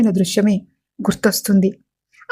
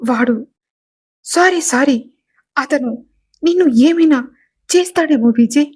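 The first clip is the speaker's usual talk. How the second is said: babbling in terror; frantic sobbing pleas, halting mid-word; hysterical panic; 3 semitones higher than usual. Acted. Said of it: "hysteria patient లాగా గట్టిగా అరుస్తూ".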